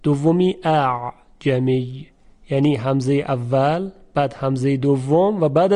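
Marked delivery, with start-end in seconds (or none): 0.6-2.1 اعجمی said slowly, second hamza shown; slow demonstration. Shown as a demonstration. Teacher points students to the second hamza, slow. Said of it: "دو تا همزه وجود داره".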